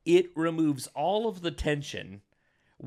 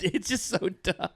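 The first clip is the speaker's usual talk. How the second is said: laughing exasperation; 6 semitones higher than usual. Real, not acted. Laughing at the dumb twist.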